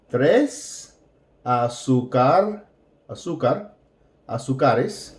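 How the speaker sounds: azúcar built up into azúcares; drilling plural. Shown as a demonstration. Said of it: "because it's plural".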